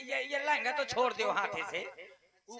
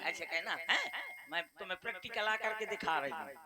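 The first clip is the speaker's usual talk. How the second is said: ordinary talk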